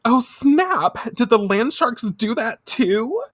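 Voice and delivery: high, bubbly slang; valley girl voice. Retold or imitated. Brand girls huddling scared, high valley-girl chatter. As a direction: play a giddy gyaru girl. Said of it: "Raruna says".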